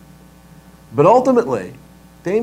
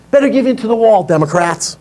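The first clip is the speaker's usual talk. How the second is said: sneering mob threat; mock mobster; 5 semitones higher than usual. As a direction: lean in like a gangster.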